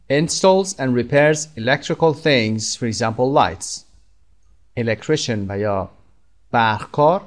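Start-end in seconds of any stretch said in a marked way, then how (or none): 0.1-3.8 slow model reading. Shown as a demonstration. Teacher reads the definition to learners, very slow and careful. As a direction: read "Builds or repairs homes" very slowly, word by word. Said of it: "teacher models definition sentence".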